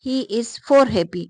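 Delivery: each wrong phrase read slowly and deliberately; slow mocking examples. Shown as a demonstration. Teacher slowly listing silly counts of happy for students. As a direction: spell out the absurd counts one by one, slowly. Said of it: "इस तरह हम कह सकते हैं?".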